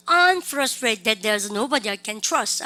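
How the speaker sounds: "I'm frustrated that there's nobody I can trust" in a slow, measured beat; rhythmic English demo. Shown as a demonstration. Teacher tells students to ride the rhythm, rhythmic model reading. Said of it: "리듬 타셔야 돼요".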